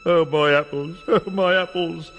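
loud, moaning tree voice. Acted. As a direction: lament the lost apples. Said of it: "said the tree".

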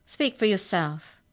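hissed retort. A narrator's reading. Mallory retorting to Arthur in court, hissed. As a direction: hiss it back pointedly. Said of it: "hissed Mallory".

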